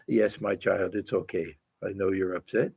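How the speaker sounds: soft, low motherly reassurance; gentle reassurance. Acted. Voicing Holy Mother's gentle reply.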